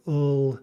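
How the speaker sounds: "ul", a vowel baked into the L; syllabic L. Shown as a demonstration. Teacher sounding out a syllabic L, vowel baked in. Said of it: "kind of a vowel baked".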